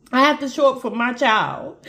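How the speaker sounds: real struggle not to cry; fighting back tears. Real, not acted. Mother torn between boy and child, fighting back tears. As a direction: hold back tears, stopping between phrases. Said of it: "I did not wanna cry".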